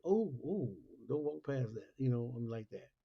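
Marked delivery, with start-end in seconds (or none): 0.0-1.9 louder, higher mock fretting voice; a hint of a worried superstitious friend; mock alarmed warning. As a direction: imitate a nervous believer warning you off. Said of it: "and they're like".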